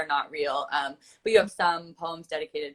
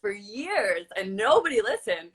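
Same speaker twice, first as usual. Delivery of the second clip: talking through a laugh; 4 semitones higher than usual. Real, not acted. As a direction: laugh while you say it. Laughing at shared frustration.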